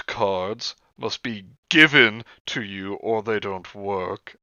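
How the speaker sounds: slow list reading, each item falling away; slow, drawn-out reading of an inventory. Acted. Reading a witchy supply list to friends, slow read-out.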